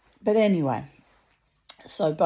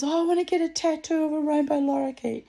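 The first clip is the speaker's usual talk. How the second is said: higher, excited stranger voice; gushing lady; 9 semitones higher than usual. Retold or imitated. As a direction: play the eager bird fan. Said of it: "she goes".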